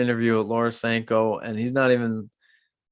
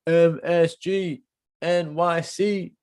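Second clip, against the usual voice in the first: hyped announcement; 6 semitones higher, slower than usual. Real, not acted.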